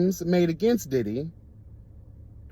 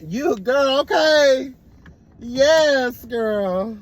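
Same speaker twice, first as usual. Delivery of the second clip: hyped laughing cheers; 7 semitones higher, much slower than usual. Real, not acted.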